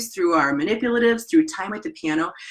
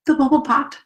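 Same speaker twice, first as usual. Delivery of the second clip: excited; 7 semitones higher, 4 dB louder than usual. Retold or imitated. Retelling children's delight.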